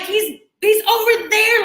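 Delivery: high, slow, urgent calling; frantic pointing out. Retold or imitated. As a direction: frantically point him out to the guards.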